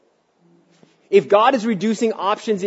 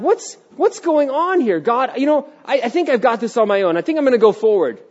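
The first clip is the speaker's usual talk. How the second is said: acted inner voice; 8 semitones higher, 3 dB louder than usual. Sermon acting out a sheep.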